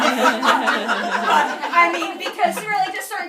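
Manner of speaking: loud laughing burst into the words. Real, not acted. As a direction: laugh it out, then start talking.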